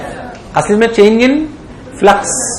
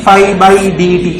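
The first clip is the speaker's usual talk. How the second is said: slow dictation; much slower than usual. Shown as a demonstration. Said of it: "teacher dictates the formula".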